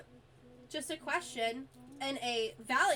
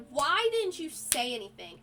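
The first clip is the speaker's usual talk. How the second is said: retold yell; 5 dB louder than usual. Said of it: "I yelled at him so loudly".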